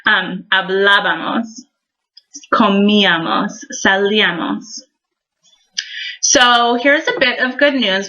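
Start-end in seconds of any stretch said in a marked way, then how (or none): 0.5-1.5 hablábamos with "blá" emphasized; stress on accented A. Shown as a demonstration. Teacher repeating the model, hablábamos stressed on "blá". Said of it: "you can hear the difference". 2.5-4.8 comíamos and salíamos, each stressed on the í. Shown as a demonstration. Teacher repeating models, comíamos and salíamos stressed on í. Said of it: "little emphasis that happens with the accent".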